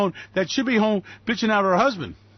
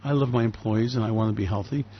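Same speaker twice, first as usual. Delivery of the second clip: mock benevolent; 8 semitones lower than usual. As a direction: put on a gentle, low, caring-boss voice. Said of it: "kind, benevolent man saying".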